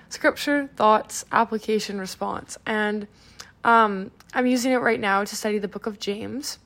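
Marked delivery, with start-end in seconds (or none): 0.1-2.6 "Scripture, Thoughts, Application, Response" word by word with gaps; said slower. Shown as a demonstration. Host repeating the method's steps for listeners, said slower. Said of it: "I'll say that slower".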